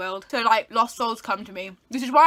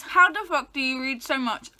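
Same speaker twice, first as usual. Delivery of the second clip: mouth full. Real, not acted. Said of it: "with this in my mouth".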